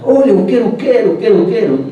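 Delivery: imitando a la gente que grita, algo más fuerte y agudo; grito imitado. Retold or imitated. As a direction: corea como la multitud en la madrugada. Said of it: "comenzaron a gritar". (remedo suave del griterío del ómnibus)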